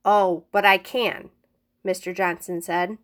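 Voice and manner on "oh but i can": cruel smug reply. Acted. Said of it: "cruel smile".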